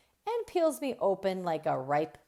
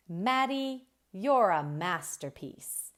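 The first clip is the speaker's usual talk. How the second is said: proud praise; 3 dB louder than usual. Acted. Dad praises her art.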